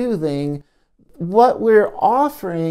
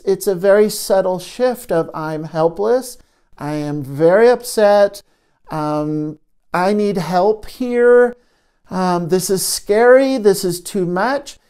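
hurting part; 4 dB louder than usual. Shown as a demonstration. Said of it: "I'm the part that's hurting".

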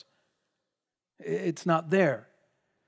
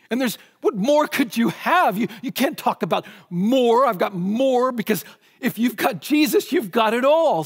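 rising emphatic preaching; 4 semitones higher, 4 dB louder than usual. Real, not acted.

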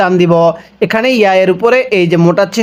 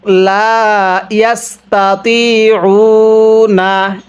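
slow, drawn-out Arabic recitation; ধীরে টেনে তিলাওয়াত; Quran recitation; slower than usual. Shown as a demonstration. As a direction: chant it slowly for the class to follow. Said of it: "আরেকবার পড়ুন".

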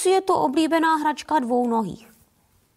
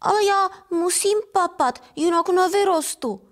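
higher little kitten pleading in self-defence; defensive mew; 5 semitones higher than usual. Acted. Kitten pleads with the big cats, high defensive mew. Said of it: "zamňoukám na svou obranu".

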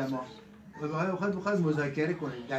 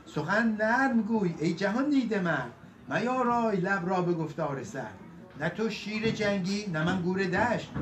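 measured Persian epic recital; epic verse recitation; 2 semitones higher than usual. A narrator's reading. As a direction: recite the couplets with rolling metre.

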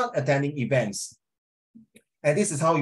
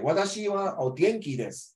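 higher "o genki", falling to a close on desu; full-stop intonation; 6 semitones higher than usual. Shown as a demonstration. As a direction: end desu with a clear fall. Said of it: "full stop".

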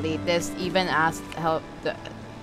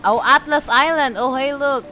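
loud, higher burst of recognition; excited discovery; 6 semitones higher, 9 dB louder than usual. Real, not acted. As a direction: call out a sudden find, pitched up. Spots an island while playing.

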